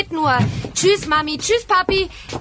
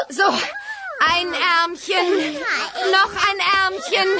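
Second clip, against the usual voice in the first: slow, drawn-out sing-song; patient baby talk; sing-song coaxing; slower than usual. Acted. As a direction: coax the arms into the sleeves. Dressing babies, sing-song.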